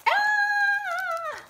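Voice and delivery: high, loud squeal of joy; delighted squeal. Real, not acted. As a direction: shriek with delight. Opening the gift.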